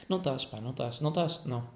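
ordinary delivery

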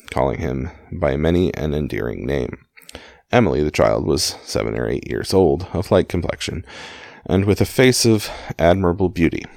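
measured audiobook-style reading; story narration. A narrator's reading. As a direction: read the memoir aloud in clear phrases. Reads a book aloud.

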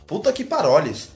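"Puta que paroles" said slowly, "paroles" with a French-like ending; mock euphemism. Telling how she softens the curse, slowly mangled. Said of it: "só que ela fala".

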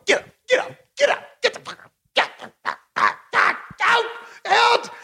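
high, urgent shouting; yelling at the screen. Real, not acted. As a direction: scream at the TV to make him get up.

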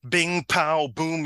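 cartoonish play-by-play of thuds; imitated fight noises. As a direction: act out blows landing in a fight. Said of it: "what sounds like a fight".

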